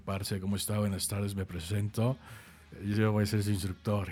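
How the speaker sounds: imitando al instructor colombiano con voz sensual. Retold or imitated. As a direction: leve voz seductora de instructor. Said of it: "Con esa voz sensual". (voz sensual de instructor colombiano)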